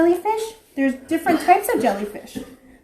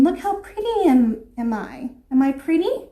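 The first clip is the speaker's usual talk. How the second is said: vain angelfish; 4 semitones higher, slower than usual. Acted. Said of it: "She's, like, saying".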